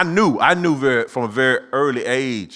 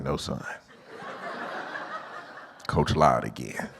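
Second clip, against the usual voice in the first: weary deadpan; 9 semitones lower, 8 dB quieter than usual. Retold or imitated. Repeated punchline, flatter.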